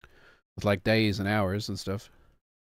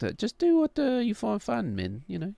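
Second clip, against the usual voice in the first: laid-back dude voice; 10 semitones higher than usual. Acted. High voiced chill reply.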